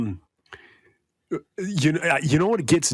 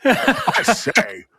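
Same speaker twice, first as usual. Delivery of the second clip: hammed-up indignant talking dog; dog's accent; 4 semitones higher than usual. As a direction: put on a higher, affronted dog voice. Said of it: "I like your dog's accent".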